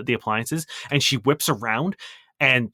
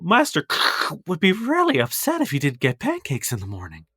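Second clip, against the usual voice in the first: halfling cook voice; 3 semitones higher than usual. Acted.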